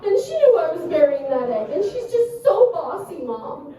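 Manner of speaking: put-on high, tearful child voice; daughter telling on classmate. Daughter tattling to mom about a bossy classmate, imitated high whine. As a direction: imitate a whining little girl. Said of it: "She was like".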